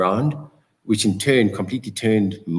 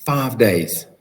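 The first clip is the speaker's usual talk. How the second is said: louder, amazed echo of five days; surprised; 4 dB louder, slower than usual. Real, not acted. Host amazed at the five-day result, surprised echo. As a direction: sound astonished at the number.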